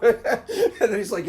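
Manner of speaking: normal talking voice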